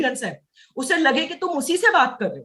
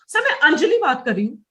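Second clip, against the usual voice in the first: lively intonation with अंजलि lifted; stress on the name. Shown as a demonstration. Trainer models a sales opening for reps, name अंजलि emphasised. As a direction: lean on अंजलि, letting the pitch move. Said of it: "ऐसे बात करो".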